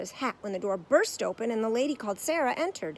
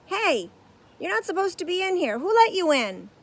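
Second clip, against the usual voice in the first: raised, higher voice calling out; 10 semitones higher, 11 dB louder than usual. A narrator's reading. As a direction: call after him, louder. Stagehand calls out.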